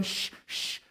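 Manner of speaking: whispered shush to quiet a singer. Retold or imitated. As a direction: hush someone, unvoiced. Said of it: "our employers should be going".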